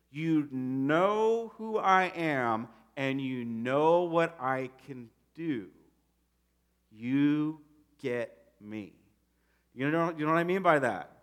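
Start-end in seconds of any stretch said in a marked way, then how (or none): 0.1-8.9 warm. Retold or imitated. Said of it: "I think he was like".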